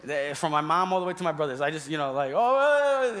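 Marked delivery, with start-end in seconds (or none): 2.4-3.2 loud, high drawn-out interruption; mock family shouting-over; talking louder. Shown as a demonstration. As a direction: drown out whoever is speaking. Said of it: "starting to talk louder than the person who's speaking".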